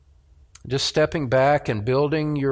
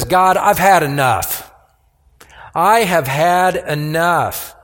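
raised, pleading lament, slowing at the end; groan of lament; 3 semitones higher, 5 dB louder than usual. Acted. Preacher voicing the weary psalmist, pleading lament. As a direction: voice the psalmist crying that he's had enough. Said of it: "In this groan of lament, he says".

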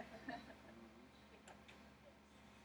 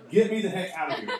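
loud, high comic holler; mock yell; 5 semitones higher, 10 dB louder than usual. Preacher as trapped Daniel demanding rescue from the hole, mock yell. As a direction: holler up out of a pit, hammed-up. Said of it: "what he didn't yell back out".

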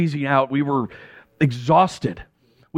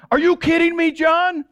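much higher, incredulous outburst; exasperated; 12 semitones higher than usual. Acted. Angry at John for casting the nets, exasperated outburst. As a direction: explode at your friend in disbelief.

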